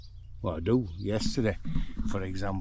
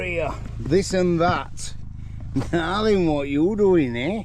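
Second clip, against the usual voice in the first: pet talk; 8 semitones higher, 6 dB louder, slower than usual. Real, not acted. Cooing at pet donkey.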